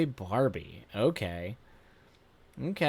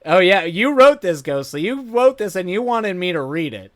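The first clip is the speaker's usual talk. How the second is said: ordinary delivery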